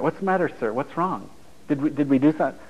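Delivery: mock anxious customer-service concern; concerned service manager. Service manager asking a blunt customer what is wrong, mildly worried.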